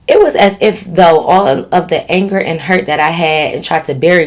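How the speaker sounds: measured storytelling read; recounting a written story; letter read aloud. A narrator's reading. Reads out a listener's letter.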